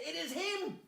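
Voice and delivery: high, loud denouncement; dramatic accusation. Acted. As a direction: cry it out, pointing at the culprit. Queen points out the villain.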